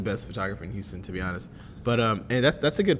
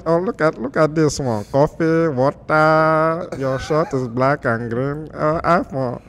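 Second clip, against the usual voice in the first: put-on booming, higher Nigerian-accented preacher; loud, sing-song Nigerian pastor impression; old Nigerian pastor; 4 semitones higher, 6 dB louder than usual. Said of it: "this is how my old pastor used to talk".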